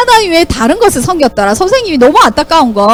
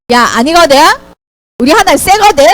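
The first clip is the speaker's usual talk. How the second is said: confident comeback. Acted. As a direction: answer the mockers back with assurance. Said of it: "이렇게 당당하게 말할 수 있는". (당당하게 받아치듯이)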